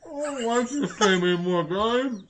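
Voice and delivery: talking through a mouthful; words round a bite of food; mouth full. Real, not acted. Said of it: "he's talking with his mouth full".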